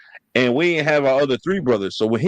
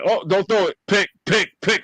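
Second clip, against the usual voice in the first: raised-pitch play-by-play taunt; imitated game heckle; 6 semitones higher than usual. Brother calling Madden plays to rattle opponent, mock taunting. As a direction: crow over a coming interception. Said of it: "he be like".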